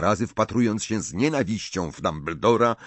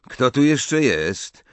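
higher, louder, slow demanding question; tense demand; 5 semitones higher, 5 dB louder, slower than usual. A narrator's reading. Malfoy checks if someone else is there, tense demand. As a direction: demand to know who is there.

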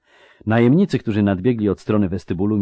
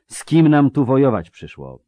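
louder, higher, bewildered question; alarmed babbling; 6 semitones higher, 6 dB louder than usual. Acted. Mercenary asking his commander what they face, alarmed babbling. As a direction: blurt it out in mild dismay. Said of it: "wybełkotał Dakr Silifant".

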